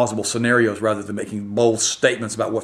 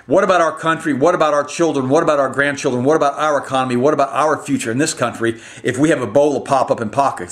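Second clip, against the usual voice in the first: higher, louder run of angry questions; frustrated outburst; 3 semitones higher, 3 dB louder than usual. Real, not acted. Ranting to viewers about the country's future, frustrated and raised. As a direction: pound each what about with real frustration. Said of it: "I'm just very frustrated right now".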